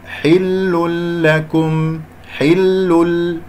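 حل لكم chanted very slowly as "hillul-lakum"; merged tanween. Shown as a demonstration. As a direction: melt the N into a doubled L in حل لكم. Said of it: "راح أقول". (ترتيل «حل لكم» بإدغام بلا غنة)

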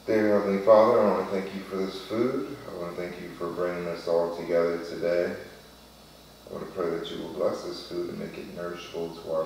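earnest mealtime prayer; saying grace. Real, not acted. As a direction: pray over the food sincerely. Saying grace before the meal.

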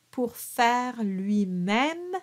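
slow "pour faire lui-même", final E's silent; dropped final E. Shown as a demonstration. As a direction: model "lui-même" slowly, ending on the M with no E. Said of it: "again drop the E".

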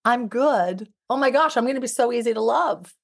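lightly acted, cheerful self-assurance; mock confident partner; self-assured quote. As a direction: play it breezy and sure of yourself, quickening at the end. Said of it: "and then I say".

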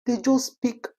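high-pitched, fed-up disbelief; exasperated complaint. Real, not acted.

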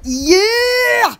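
sudden excited cry; excited squeal. Real, not acted. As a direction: squeal it with delight. Excited squeal showing off pet.

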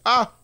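short, sharp yelp. Real, not acted. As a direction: cry out briefly. Yelps while playing near danger.

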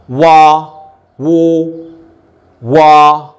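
wa, wo, wa, contrasting open and rounded vowel; vowel drill. Shown as a demonstration. Teacher drills the vowel of water. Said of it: "There's a bit opening the mouth".

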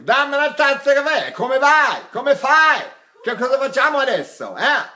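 high, lively Italian chatter; open natural diction. Shown as a demonstration. Coach showing natural diction in Italian, pitched high. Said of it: "So we say".

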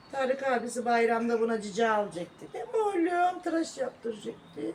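speaking through tears; real tears while talking to the dog; crying. Real, not acted. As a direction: voice breaking with grief over the hurt dog. Grieving over the injured dog.

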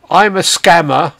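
unhurried, each word set apart; very slowly. Shown as a demonstration. Dictating the script to the scam caller, very slowly. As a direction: dictate it slowly so he can copy it. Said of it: "I'll repeat it very slowly".

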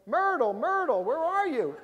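loud, high call across the water. Retold or imitated. Escort boatmen searching the night lake, calling loudly. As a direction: shout her name into the dark lake.

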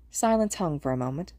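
ordinary delivery

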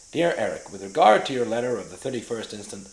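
put-on loud American-accented letter reading. Actor reads a letter for producers, loud American accent. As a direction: read it out boldly in an American accent. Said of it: "Can you do the American accent?".

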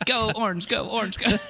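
high-pitched fan chant; mock cheer. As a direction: chant giddily for the team. Acting out cheering at game.

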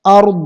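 আরদ with a loud, heavy held দ; heavy final দ. Shown as a demonstration. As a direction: land আরদ on its final consonant from the দাদ articulation point. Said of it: "দাদের যে মাখরাজ সেখানে চলে যাবে".

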